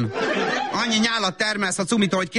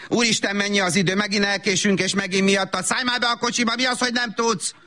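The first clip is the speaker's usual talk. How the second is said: harried scolding; 3 semitones higher than usual. Acted. Late mother blames her child.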